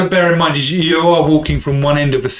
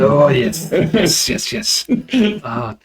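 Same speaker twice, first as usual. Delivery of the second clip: relishing vendor voice; 3 semitones higher than usual. Acted.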